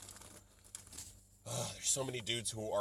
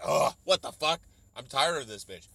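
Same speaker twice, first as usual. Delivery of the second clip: annoyed viewer; 2 semitones higher, 9 dB louder than usual. Retold or imitated. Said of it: "You're not like".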